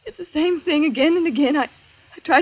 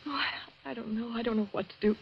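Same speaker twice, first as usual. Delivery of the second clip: much softer, nearly breathless; helpless; 11 dB quieter than usual. Acted. Julia answering Laura, soft and helpless. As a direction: give up, lost.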